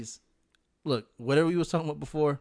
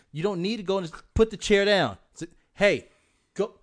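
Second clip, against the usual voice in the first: put-on louder, exasperated commands at the kids; frazzled parent yelling; 3 semitones higher, 8 dB louder than usual. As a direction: bark orders at kids running wild. Imitating parenting chaos with kids.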